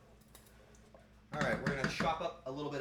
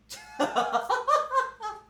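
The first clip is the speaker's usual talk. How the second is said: loud, very high staccato laugh; high-pitched laugh; 11 dB louder than usual. Acted. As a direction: let out a piercing burst of laughter. Burst after the Mario impression.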